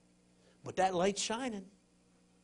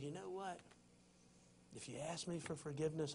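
gentle voice of God. Acted. God's promise voiced by preacher.

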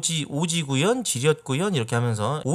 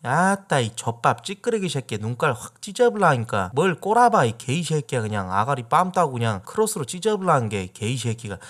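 cursing in Jeolla dialect. Shown as a demonstration. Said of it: "욕할 때 많이 씁니다".

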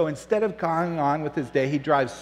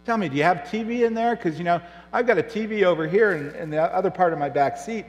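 boastful Yugo driver; 6 semitones higher, 4 dB louder, faster than usual. Acted. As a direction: play the cheeky little guy needling the rich man.

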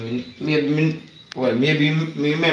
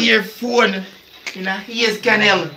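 teasing echo; 10 semitones higher, slower than usual. Real, not acted. Teasing echo of friend's word.

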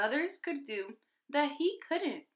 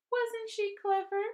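teacher praising; 10 semitones higher than usual. A narrator's reading. Teacher praising Sharon at home time.

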